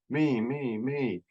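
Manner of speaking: lilting, drawn-out mock chant; sing-song me-me-me; mock self-centered. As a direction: play up each me as self-absorbed. Mimics ego-centered self-focus.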